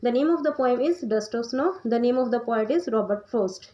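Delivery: dictates the answer slowly, word by word; teacher dictating an answer; slow dictation. Shown as a demonstration. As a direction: spell it out slowly for note-taking. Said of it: "ये question आपने अच्छे से करना है".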